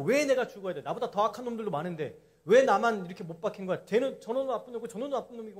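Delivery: acted-out grumbling of a condemned criminal, lightly heated; mock cursing complaint. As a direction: protest the unfairness, mildly worked up. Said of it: "얼마나 욕을 해댔겠습니까".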